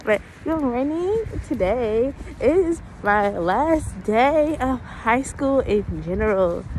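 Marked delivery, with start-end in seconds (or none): 0.0-4.6 talking through a face mask; words muffled behind a mask. Real, not acted. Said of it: "I have on my mask".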